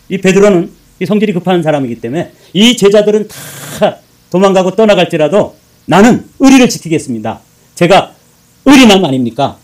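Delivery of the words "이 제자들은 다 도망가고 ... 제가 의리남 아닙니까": loud, high, swaggering boast; boastful bragging. Retold or imitated. Peter boasting to Jesus, loud swaggering brag. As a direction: brag it big like a loyal tough guy. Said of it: "큰 소리 떵떵 치고 허풍을 떨었는데".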